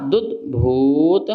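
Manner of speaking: दुद्भूत with the भू held long; drawn-out syllables. Shown as a demonstration. Teacher stretching भू in दुद्भूत for students. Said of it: "भा में ऊ लगा है तो थोड़ा खींचो".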